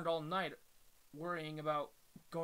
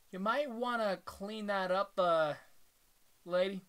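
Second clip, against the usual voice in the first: tough guy voice; 3 semitones higher, 4 dB louder than usual. Acted. Voicing a bully character.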